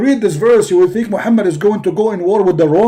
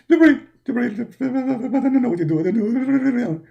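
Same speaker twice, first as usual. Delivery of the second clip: 1 mock trembling. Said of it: "Why you are shaking?".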